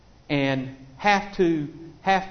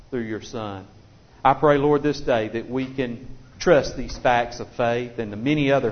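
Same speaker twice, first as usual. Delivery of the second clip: prayer; 3 semitones lower than usual. Acted. Closing prayer.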